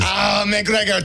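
slow, hammed-up Irish call; Irish accent. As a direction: shout it like a drunk Irish fan. Mock Irish cheer.

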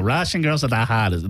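put-on Russian accent. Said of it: "That's horrible Russian accent".

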